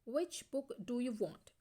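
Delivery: very slow, each word spaced out; slow dictation. Shown as a demonstration. Teacher reading the example sentence aloud to students, very slow. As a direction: spell it out for the class.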